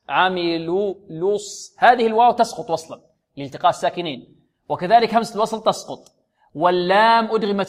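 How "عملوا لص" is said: عملوا لص slowly, with the lips rounded on the لام; slow عملوا moving into the ص; lip rounding. Shown as a demonstration. Teacher shows the joining in عملوا الصالحات. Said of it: "وعملوا الص".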